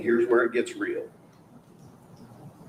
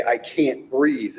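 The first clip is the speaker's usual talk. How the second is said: quoted plea; 2 semitones higher, much slower than usual. Retold or imitated. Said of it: "You hear her say".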